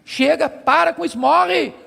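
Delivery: imitating a fed-up wife, rising at the end; building exasperation in a quoted retort; wife's retort. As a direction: act out a wife telling her husband off. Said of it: "ela disse assim pra ele".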